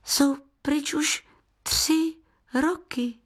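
put-on high, slow reproach from a boy; boy reproaching the guest; reproachful. A narrator's reading. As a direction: remind him with a hurt edge. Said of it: "zazněla v jeho hlase výčitka".

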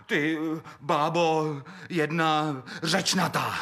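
high, rising squabble; shrill insult match. Acted. Miller bickering with his wife, shrill insults.

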